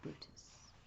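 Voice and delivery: very slow eerie ghost, trailing into a whisper. Acted. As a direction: stretch each word, then breathe out the name. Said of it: "He says".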